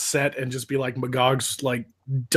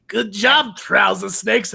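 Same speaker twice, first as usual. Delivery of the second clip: mocking villains; 4 semitones higher, 4 dB louder, slower than usual. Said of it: "they're like".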